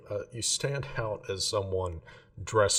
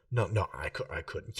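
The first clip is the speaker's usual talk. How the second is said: put-on drunk whisper. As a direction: whisper a nervous refusal. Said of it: "loud whisper voice".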